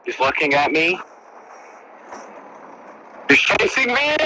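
panicked, rising yelp; scared cry while fleeing; being chased. Real, not acted. Boar chasing player in game.

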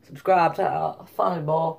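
faltering attempt at South African; badly faked South African accent. Shown as a demonstration. Vlogger failing at accents for his plug, shaky South African attempt. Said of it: "South African".

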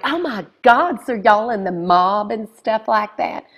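high, loud, scandalized; mock-shocked neighbor; gasping neighbor. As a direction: shriek it like gossip. Neighbors asking about the mob.

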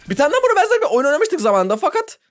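giggling through the line, losing the thread; words tripping over a laugh; laughing fumble. Real, not acted. Streamer to viewers, breaking into laughter mid-sentence. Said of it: "Ne dedim ben ya?".

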